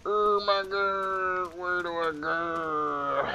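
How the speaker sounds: slow, stretched lost whine; drawn-out whine. Real, not acted. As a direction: drag it out helplessly. Lost, dragging it out.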